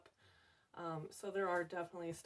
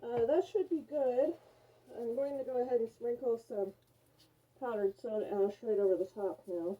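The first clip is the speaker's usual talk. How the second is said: muffled behind a respirator mask; through a respirator; 6 dB louder than usual. Real, not acted. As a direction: talk through a face respirator. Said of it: "with my respirator on".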